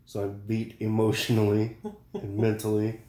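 words dragging, worn out; hungover. Real, not acted. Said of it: "I drank way too much last night".

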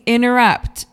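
"interrupt" said as "innerupt", first T gone; casual Californian "interrupt" without the first T; dropped T. Shown as a demonstration. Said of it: "That's what I'm saying".

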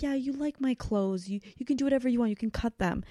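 a touch of grandmotherly indulgence; generous grandmother. Retold or imitated. Voices grandmother giving away clothes.

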